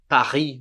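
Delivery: "Paris" as pa-REE; French "Paris" ending on the vowel; silent S. Shown as a demonstration. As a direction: drop the S of "Paris", R in the throat. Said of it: "não fala S".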